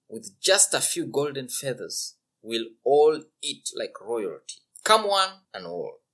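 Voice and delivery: hearty invitation. Acted. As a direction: call everyone to the feast. Simpleton invites everyone.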